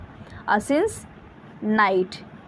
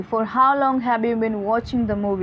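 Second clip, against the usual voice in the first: slow example read; much slower than usual. Shown as a demonstration. Teacher to students, reading the question slowly. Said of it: "reading example question".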